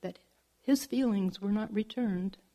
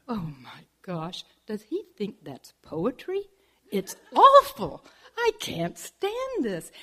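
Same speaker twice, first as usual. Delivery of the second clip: disgusted saguaro. Acted.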